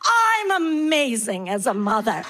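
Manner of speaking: slow, drawn-out boast in a put-on voice; self-adoring storyteller mom. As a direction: gloat grandly, stretching the words. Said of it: "use your voices".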